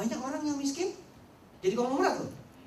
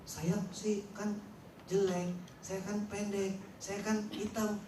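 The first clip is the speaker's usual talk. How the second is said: mock self-pity; slower than usual. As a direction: whine out every excuse. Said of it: "Bicaranya cuman".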